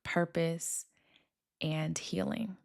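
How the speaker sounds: slow, soft intro voice; soft podcast welcome. Acted. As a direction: welcome listeners gently, drawing the words out.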